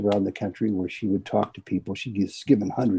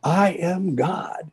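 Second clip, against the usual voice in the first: a high, slow, lightly raised declaration; mock shout; 7 semitones higher, much slower than usual. Mrs Crystal finally declaring to Baba, mild mock shout. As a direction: stretch it out high, half-shouted. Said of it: "virtually shouting it".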